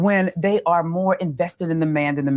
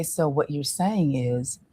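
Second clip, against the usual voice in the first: calm probing question; 2 semitones lower than usual. Shown as a demonstration. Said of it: "I'll say".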